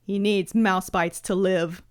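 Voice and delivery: slow American accent impression; lightly voiced American TV doctor; House. Answering a request for Hugh Laurie's American, slow drawled impression. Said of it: "Go Hugh Laurie house".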